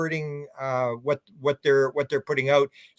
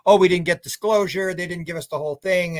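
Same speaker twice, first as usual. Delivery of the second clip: imitating upset complainers, raised at first; a mildly whiny mock complaint, starting high and louder; 4 semitones higher, 4 dB louder than usual. Mimicking impatient people who didn't get disclosure, mock upset. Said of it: "people get all upset".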